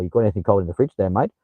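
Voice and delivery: quick, lightly imitated Australian question; mimicked Aussie uptalk. Streamer imitating Australians asking for a cold drink, quick Aussie uptalk. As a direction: toss it off fast with an Aussie lilt. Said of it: "it makes it sound like a question".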